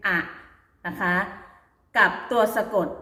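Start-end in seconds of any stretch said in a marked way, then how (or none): 0.1-0.2 "อะ" said alone as a short open syllable; read as "อะ". Shown as a demonstration. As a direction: sound out "อะ" with no final consonant. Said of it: "ให้ออกเสียงเป็น".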